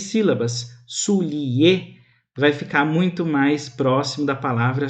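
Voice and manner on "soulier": soulier stretched into su-li-er; three-syllable soulier. Shown as a demonstration. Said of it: "mais alongado e ele passa a ter três". (soulier alongado em três sílabas)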